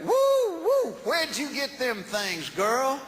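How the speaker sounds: whooping high catcall; rowdy redneck. Retold or imitated. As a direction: hoot like a leering old uncle. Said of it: "Uncle Don looked at her and went".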